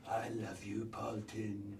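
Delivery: soft, tender whisper. Acted. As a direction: whisper it lovingly.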